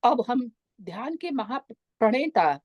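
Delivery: lilting, unhurried meditation voice with long pauses; soothing meditation leader, stretched vowels and spaced phrases; guided meditation. Acted. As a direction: guide listeners gently into relaxation, drawing out key words.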